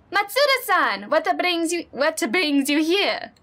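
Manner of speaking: put-on neighborly Minnesotan accent, slowing at the end; kindly older neighbor, Minnesotan accent. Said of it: "I think I gave it a Minnesotan accent too".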